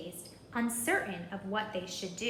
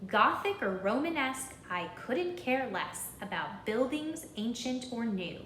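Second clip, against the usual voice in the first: stern teacher. Acted. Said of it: "she had this to say".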